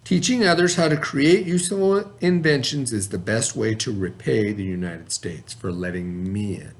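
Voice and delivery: clear, even read-aloud voice for a class; story narration. A narrator's reading. Teacher reading a picture book to the class, steady narration.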